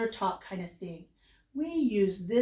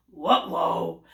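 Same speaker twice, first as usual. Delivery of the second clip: Scooby-Doo; 5 semitones lower than usual. Acted. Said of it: "He doesn't quite understand".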